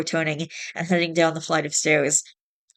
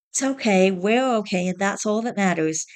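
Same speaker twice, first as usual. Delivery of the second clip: soft reassurance; 3 semitones higher than usual. Acted. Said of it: "she said softly".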